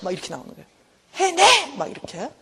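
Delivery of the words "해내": sharp high command; mock angry command. Grown child snapping orders at people, sharp and high. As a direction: bark it out like a spoiled grown child.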